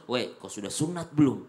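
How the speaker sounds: teasing, taunting bully voice; mocking scare voice. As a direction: jeer at him like a pushy neighbour. Harsh man scaring a new convert.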